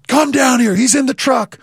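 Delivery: mild imitated shout to a friend below; retold yell. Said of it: "And he's yelling".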